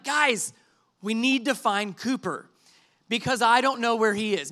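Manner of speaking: put-on measured calm announcement to the kids; calmly breaking bad news. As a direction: keep it composed despite the worry. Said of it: "I start saying very calmly".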